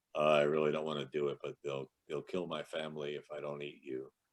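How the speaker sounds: low, flat, put-on deadpan with no inflection. Recalling his very first line as a new character, in total deadpan. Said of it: "which was just total a total deadpan".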